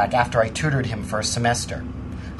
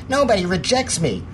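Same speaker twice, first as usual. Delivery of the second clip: higher-pitched mock indignant girl; raised-pitch, affronted quote; retold indignation; 6 semitones higher than usual. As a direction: imitate a spurned girl's proud retort. Imitates spurned girl before the shove.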